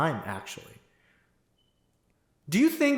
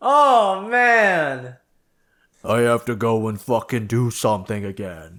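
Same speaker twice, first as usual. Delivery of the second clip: big sulky brute, dropping low after the groan; Hulk; 5 semitones lower, slower than usual. Acted. Hulk groaning about having to fight once more, sulky. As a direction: do a grumbling, half-serious brute impression. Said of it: "That's my best Hulk impression".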